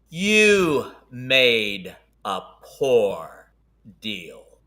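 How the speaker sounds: very slow, drawn-out, swooping fiendish monster bellow. Voicing a towering creature that bellows at the players: bellowing creature voice. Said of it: "you hear him bellow in Fiendish".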